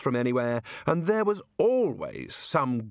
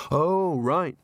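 a touch of weariness, spoken up; weary "now I get it", louder at the start; resigned, with some punch; 4 semitones higher, 4 dB louder than usual. A narrator's reading. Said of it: "he said wearily".

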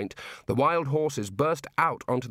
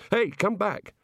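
higher, urgent call; 9 semitones higher, slower than usual. A narrator's reading. Man calls after water sinking away, raised higher voice.

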